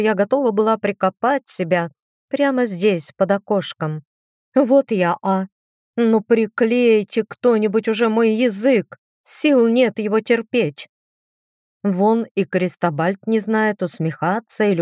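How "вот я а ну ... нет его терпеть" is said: fed up with her own tongue; exasperated. Acted. Heroine scolds herself aloud.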